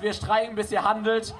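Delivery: motto called out to the crowd, rising to a shout. Real, not acted. Organizer tells the crowd their motto, shouting it out. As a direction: chant the motto for the crowd to hear.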